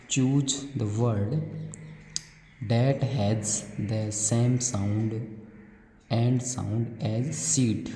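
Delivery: very slow, deliberate English read; slow classroom read-aloud; reading a question aloud. Acted. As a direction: read the worksheet question word by word for children. Reads worksheet question slowly.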